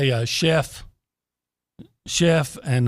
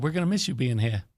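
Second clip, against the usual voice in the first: mock Australian accent. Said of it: "I'm trying to mock her Australian ac".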